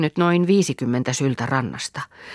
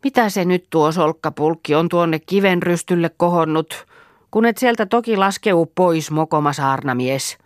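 put-on scolding old woman; 3 semitones higher than usual. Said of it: "Reeta kasahti".

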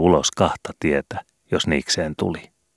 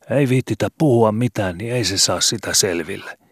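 put-on carefree boy; 6 semitones higher than usual. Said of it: "sanoi Skobe huoletonna".

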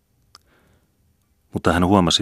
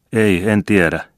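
higher, louder denial; tearful insistence; 5 semitones higher, 6 dB louder, slower than usual. A narrator's reading. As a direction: protest with a touch of tears. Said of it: "vakuutti emäntä itkusilmin". (hieman itkuisesti vakuuttaen)

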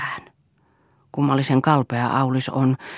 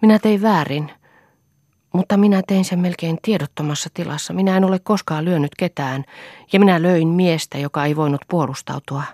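agitated; 4 semitones higher, 4 dB louder than usual. Acted. Aulis pleads, ashamed of violence.

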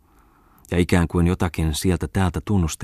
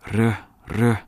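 grumbling mutter; 5 semitones higher than usual. A narrator's reading. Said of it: "mutisi mennessään".

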